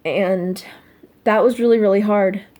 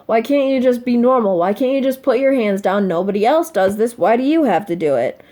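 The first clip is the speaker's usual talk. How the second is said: mock disapproval. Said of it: "that look of".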